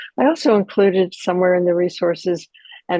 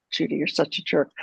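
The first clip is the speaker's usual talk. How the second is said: put-on muttered under the breath, like a scolding ten-year-old; a soft inner put-down; quiet self-critical voice; 2 semitones lower, 6 dB quieter, faster than usual. Berating herself after a mistake, quietly. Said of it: "The self-critical voice often sounds like a ten-year-old".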